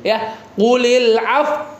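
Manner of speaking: Qulil af- with lips pushed forward, slow; lips pursed. Shown as a demonstration. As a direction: round the lips into a pout on af-. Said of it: "monyongin, Pak".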